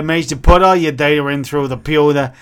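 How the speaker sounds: put-on New York accent. Adviser pressing on with loan business, New York accent. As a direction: switch into a New Yorker's accent. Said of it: "he's gone from, like, New York".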